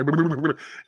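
blubbering motorboat sound; motorboat lip noise. Acted. Mock coach burying his face, blubbering motorboat noise. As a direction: buzz the lips like a motorboat.

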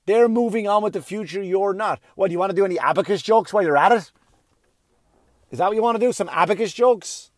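loud fast scolding; yelling rant. Real, not acted. Comedian berating older comics in a loud rant. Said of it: "Why are you yelling".

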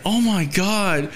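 high, drawn-out mock horror; hammed-up disgusted disbelief; horrified outrage. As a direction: stretch it out, aghast and high-pitched. Acted horror at finding tampon.

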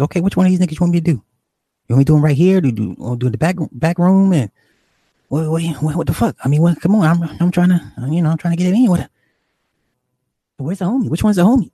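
high, impatient imitation of an agitated woman; animated. Woman pressing the dealer about which one, animated. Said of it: "she's very animated".

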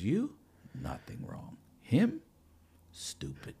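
choppy broken-English verdicts; foreign man impression. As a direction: judge each one in a put-on voice. Imitating a man judging comedians.

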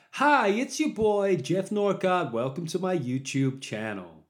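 high, loud vlogger intro, greeting stretched out; hammed-up YouTube channel welcome, starting high and easing down; mock-enthusiastic YouTuber voice; YouTuber impression. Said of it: "those YouTubers, why do they all speak the same".

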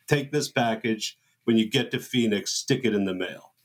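low, measured bossy orders; Robert Evans style. Retold or imitated. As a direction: hand out orders like a Hollywood producer. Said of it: "Jay says it like that".

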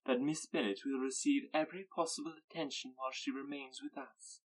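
frosty politeness to the mother; cold civility. Acted. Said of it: "with cold civility".

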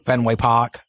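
put-on low, easy Boston accent on "Park"; lightly put-on Boston accent. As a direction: say "Park" as "Pahk", Boston style. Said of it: "get a Boston one from you".

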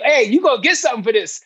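high, hyped-up voice of a flatterer; mock flatterer. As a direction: tease like someone promising an award. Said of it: "people start telling you".

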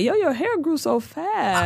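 hint of a naive outsider marvelling; mock clueless white person. Mocking white people's remarks.

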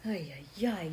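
ordinary delivery

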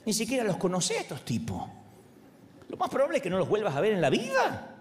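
a conscience half-yelling to stop a lie; scolding inner voice. Retold or imitated. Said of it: "casi esa me grita".

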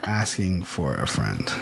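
slow, low, halting read-out; dictating while typing. Real, not acted. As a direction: say each word as you type it, amused. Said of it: "tell me what you're typing as you do it".

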